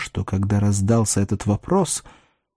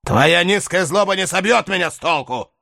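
grim forced laugh; 8 semitones higher than usual. Acted. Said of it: "с мрачным и натянутым смехом".

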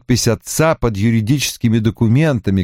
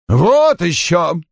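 drawn-out, higher-pitched brush-off; offhand dismissal; 7 semitones higher, much slower than usual. A narrator's reading. Secretary dismisses the idea of baking a cake, offhand. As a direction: toss it off slowly in the secretary's put-on voice. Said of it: "равнодушно бросила Пат".

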